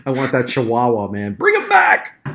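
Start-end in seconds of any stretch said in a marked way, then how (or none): 1.3-2.2 high, loud joking call; playful shout. Real, not acted. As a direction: yell it out for a laugh. Joking demand for the Chihuahua.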